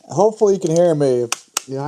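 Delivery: talking muffled through a face mask. Real, not acted. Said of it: "I sound like I'm muffled".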